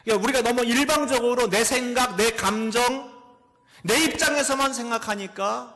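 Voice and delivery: loud, high impassioned preaching; full-force preaching. Acted. Pastor preaching loudly to the congregation. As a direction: preach it out to the back pews.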